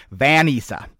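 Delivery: Vanessa whispered as "VAN-issa". Shown as a demonstration. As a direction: breathe Vanessa as "van-ISS-a", unvoiced. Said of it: "pronounce Vanessa the way they wanted it pronounced".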